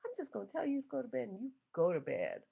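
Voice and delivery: high, loud mock outrage; incredulous critics. Other parents scoffing at her, high loud outrage. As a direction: play the shocked disapproving parent. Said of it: "a lot of people are like".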